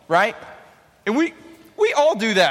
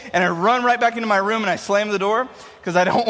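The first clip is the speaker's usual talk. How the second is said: usual speaking voice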